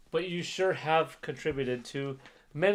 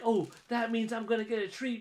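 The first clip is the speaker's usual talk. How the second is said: dog's thoughts; 8 semitones higher than usual. Retold or imitated. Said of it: "she's like".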